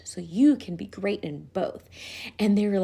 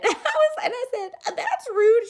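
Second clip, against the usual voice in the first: laughing; 4 dB louder, slower than usual. Real, not acted.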